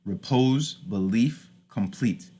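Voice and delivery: "repose", "belief", "complete", each unstressed then stressed; iambic stress. Shown as a demonstration. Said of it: "you can hear it in these words".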